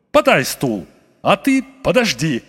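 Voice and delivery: громче, отрывисто; распорядиться на ходу; начальственный окрик. A narrator's reading. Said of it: "крикнул он бабе". (кричит бабе у решётки)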